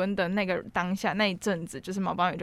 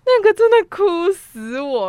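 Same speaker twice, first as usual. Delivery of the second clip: 激动高喊; 10 semitones higher, 10 dB louder, slower than usual. Real, not acted. 激动回忆电影哭点.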